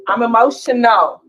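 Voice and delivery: high and loud, insisting on it; loud, high, fired-up claim; emphatic loud declaration. Real, not acted. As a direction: belt it out like a confession you're proud of. Repeats I'm emotional, raised take.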